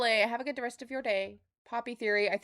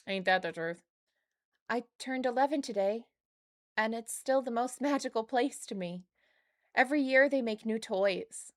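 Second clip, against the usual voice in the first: lightly voiced young girl reading her diary; a hint of a hopeful little girl; reading a child's diary. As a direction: read it like an eleven-year-old, wistful. Reads child's diary note.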